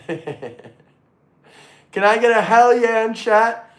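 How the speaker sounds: slow, laughing call to chat; laughing hype. Real, not acted. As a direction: laugh through it as you rally them.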